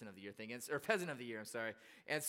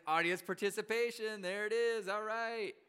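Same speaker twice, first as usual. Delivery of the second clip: raised, lifted cheer of approval; retold delight; 5 semitones higher than usual. Audience member delighted by the actor's bit, retold excitement. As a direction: play up being pleased by the show.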